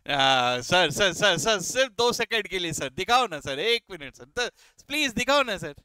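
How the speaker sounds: lightly mimicked begging student, words repeated in a rush; pleading student. Teacher mimics students asking for two seconds' look, lightly mock pleading. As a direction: beg like a pupil, a little mock-desperate.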